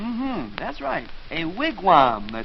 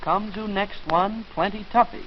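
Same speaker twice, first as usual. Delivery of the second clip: mock pidgin chief; 4 semitones higher than usual. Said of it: "Longfellow's got me doing it".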